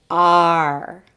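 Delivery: lightly voiced pirate "Arr"; long, held "Arr" for others to join. Teacher practises the pirate sound with learners, light pirate "Arr". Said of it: "Practice it with me".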